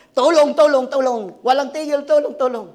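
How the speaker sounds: loud call for help that fades; shouting for help. Retold or imitated. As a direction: cry out for help across the river. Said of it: "nagsisigaw ng malakas". (paulit-ulit na sigaw ng tulong)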